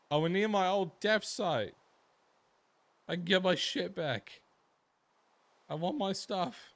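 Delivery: thrilled to get her things back; excited. Real, not acted. Excited finding her stuff.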